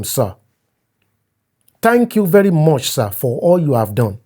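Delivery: overly polite message read aloud; a hint of a fawning younger friend; reading a deferential message. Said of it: "November thirty".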